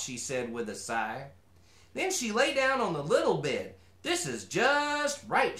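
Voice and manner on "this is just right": content. Acted. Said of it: "she smiled".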